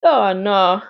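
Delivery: put-on lightly done Caribbean accent for a doctor. Doctor greeting a worried mother, light Caribbean accent. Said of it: "I'm gonna give him a Caribbean accent".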